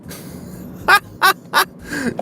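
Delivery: high bursts of laughing; derisive laughter. Real, not acted. Vlogger scoffing at what people supposedly think, derisive laughter. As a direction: cackle at the absurdity.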